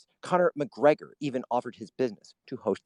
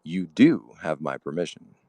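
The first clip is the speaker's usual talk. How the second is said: Poso voice; 6 semitones lower than usual. Pretend. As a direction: savour each word like a smooth radio host. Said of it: "the Poso voice".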